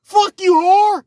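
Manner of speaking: high, loud mock white-guy yelling; shrill hammed-up white boy rage; white boys cussing. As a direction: scream it like a furious white dude. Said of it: "when the white boys say".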